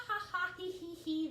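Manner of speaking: loud, high ha-ha into hee-hee; laughing. A narrator's reading. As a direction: read out the cackles with gusto. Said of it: "They are just laughing".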